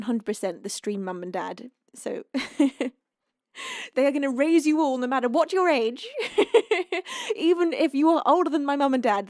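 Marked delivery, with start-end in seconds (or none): 1.9-9.3 louder, words bursting through laughter; laughing. Real, not acted. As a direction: laugh your way through the joke. Joking about shared stream parents.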